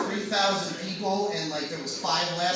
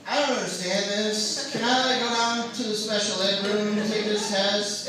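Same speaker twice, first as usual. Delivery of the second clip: slow, lightly acted dim student; playing stupid; 3 semitones higher, 3 dB louder than usual. Student playing stupid to get test help, slow mock cluelessness. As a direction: feign not understanding, dragging the words out. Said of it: "they taught me how to play stupid".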